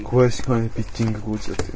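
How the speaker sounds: flat, machine-like monotone; robot voice. Pretend. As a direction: speak like a machine, no inflection. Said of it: "なんで今機械みたいな喋り方だった？".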